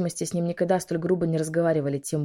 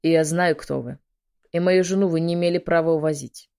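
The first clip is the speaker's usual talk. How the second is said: low voice; 4 dB louder than usual. Acted. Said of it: "низким голосом проговорил генерал".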